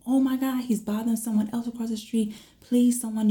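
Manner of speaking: high-pitched urgent plea; retold alarmed plea. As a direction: replay begging the emergency operator for help. Pleading with 911, retold.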